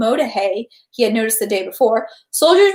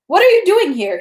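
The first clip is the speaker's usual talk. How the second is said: sharp challenge; 8 semitones higher, 5 dB louder than usual. Acted. Adjutant challenges Pierre.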